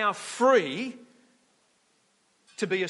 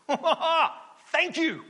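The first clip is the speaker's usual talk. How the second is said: gleeful fish; 4 dB louder than usual. Acted. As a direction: crow with relief like a freed fish. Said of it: "says the fish".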